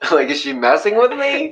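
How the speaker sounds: high, incredulous inner question; mock suspicion. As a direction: ask it like you're being pranked.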